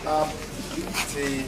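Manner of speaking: optimism slow, first syllable pushed; slow stressed demo. Shown as a demonstration. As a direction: model optimism slowly for the class. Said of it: "can one stress".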